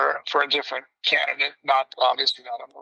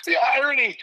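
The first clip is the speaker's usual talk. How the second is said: sarcastic remark; 10 semitones higher, faster than usual. Retold or imitated. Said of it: "I was like".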